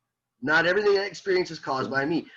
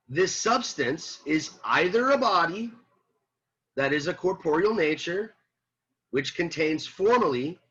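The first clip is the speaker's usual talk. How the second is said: slower, deliberate reading with pauses between phrases; read more slowly; 3 semitones higher than usual. Shown as a demonstration. Teacher rereads the sentence for the class, more slowly. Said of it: "I'll read it more slowly".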